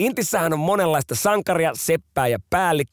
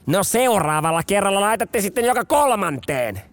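higher, lightly voiced officer; a hint of a dry lieutenant; dry officer remark; 7 semitones higher than usual. Lieutenant dryly correcting the conscript, lightly voiced. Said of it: "Yliluutnantti toteaa".

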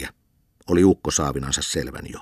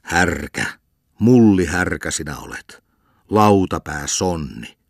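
louder angry scolding, slowing at the end; raging insult; 4 dB louder, slower than usual. Acted. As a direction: hurl the insults. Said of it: "Lukkari raivostui ja huusi".

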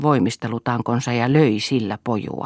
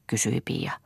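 usual speaking voice

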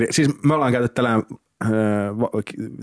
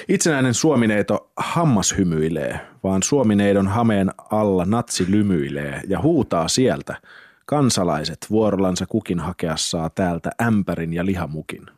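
measured recital of a satirical verse; deliberate, lightly performed verse reading; poem reading. Acted. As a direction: read it out line by line as a poem.

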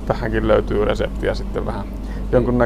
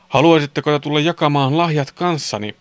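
Santa asking; 4 semitones higher than usual. A narrator's reading. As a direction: invite the boys as Santa would. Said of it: "kysyi joulupukki". (joulupukin kuuluva, kutsuva kysymys)

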